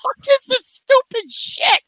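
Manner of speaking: very high, drawn-out yell; slow, high-pitched retold rant; incredulous outburst. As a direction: cry out in baffled exasperation. Retells disbelief at the scene.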